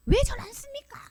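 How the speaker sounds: high-pitched indignant outburst; angry protest. Acted. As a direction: protest as if badly wronged. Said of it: "이렇게 화가 나죠".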